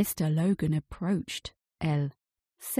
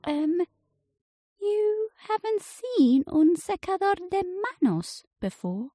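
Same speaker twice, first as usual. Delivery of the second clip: higher, lightly voiced young boy; boy's voice; 11 semitones higher than usual. A narrator's reading. Boy asking the inventor, in a higher young voice. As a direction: ask like a puzzled kid. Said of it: "asked the boy".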